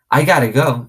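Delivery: put-on high, wide-eyed small girl, slowed down; awed little girl asking about magic. A narrator's reading. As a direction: marvel at it like a little kid. Little girl Sweetie Pie.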